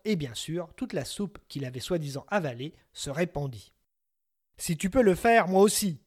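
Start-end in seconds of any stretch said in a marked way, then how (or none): 4.6-6.0 loud, high, defiant shout; giant yells. Acted. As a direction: bellow it back in reckless rage. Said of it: "hurla le giant".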